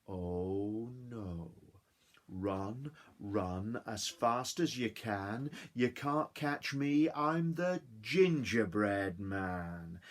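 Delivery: slow, teasing sing-song; cheeky gingerbread man. Acted. Gingerbread man taunting his chasers, slow teasing chant. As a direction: taunt them as you run.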